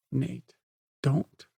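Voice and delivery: tearful sputtering plea; sputtering, close to tears; sputtered plea. Acted. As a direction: choke it out through tears. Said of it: "she sputtered".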